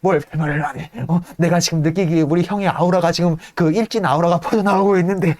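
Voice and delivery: high, rising hysterical ranting; a hammed-up anxious tyrant; paranoid rant. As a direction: work yourself into a frenzy. Franz ranting at servant.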